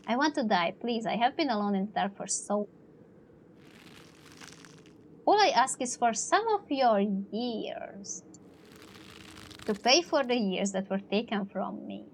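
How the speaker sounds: a lightly voiced ghost begging for years. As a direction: drag it out, lonely and hungry.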